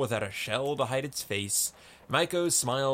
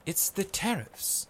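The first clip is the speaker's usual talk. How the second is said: Maiko's repeating voice; 8 semitones higher than usual. A narrator's reading. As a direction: repeat "It's the tariffs" high, without punching it. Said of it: "repeated Maiko".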